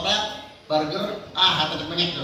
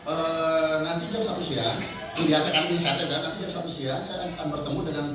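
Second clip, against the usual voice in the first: secretary and boss roleplay; 4 semitones lower than usual. Shown as a demonstration. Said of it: "Setelah selesai dia pimpinan ngomong".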